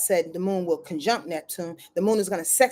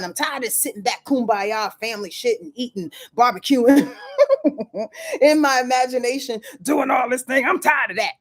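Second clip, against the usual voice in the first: impatient emotions; 3 semitones higher than usual. Pretend. Emotional energy fed up with lazing, mock-impatient rant. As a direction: grumble like someone sick of family barbecues.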